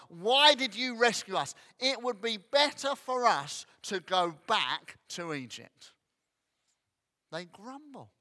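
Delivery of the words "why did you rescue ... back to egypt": loud, higher petulant complaint; mock whine of the Israelites at God; grumbling at God. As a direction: moan like an ungrateful crowd. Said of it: "They grumble at God".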